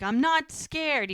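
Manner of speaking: scared denial. Retold or imitated. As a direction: imitate someone scared insisting he isn't. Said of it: "and he's scared".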